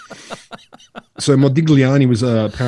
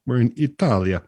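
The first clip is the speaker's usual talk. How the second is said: Italian accent. Shown as a demonstration. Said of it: "So my accent comes back properly now".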